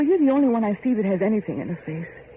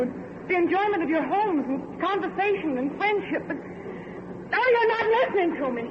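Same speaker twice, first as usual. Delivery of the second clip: higher-pitched earnest pleading; higher-pitched impassioned appeal to the workers; impassioned plea; 5 semitones higher than usual. Acted. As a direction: plead with the crowd to listen.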